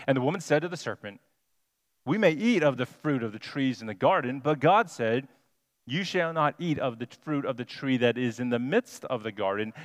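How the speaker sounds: measured reading of the verse; scripture reading. Acted. Preacher reading Genesis to the congregation, measured and clear. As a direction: read the passage steadily to the congregation.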